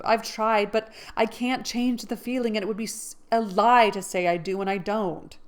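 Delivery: apologetic refusal; Jo earnest. Acted. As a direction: insist it's the truth. Jo's speech continues.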